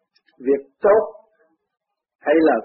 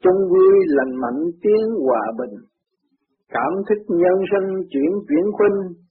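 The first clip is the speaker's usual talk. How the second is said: ngâm kệ; 2 semitones higher, slower than usual. A narrator's reading. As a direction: intone the gatha phrase by phrase, stretching words. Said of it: "Kệ". (ngâm kệ chậm rãi, mở đầu cao giọng)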